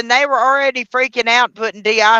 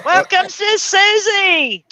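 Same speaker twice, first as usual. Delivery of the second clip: high, slow, sing-song welcome; high excited welcome; 10 semitones higher, slower than usual. Real, not acted. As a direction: stretch out a bright greeting. Greeting the new guest.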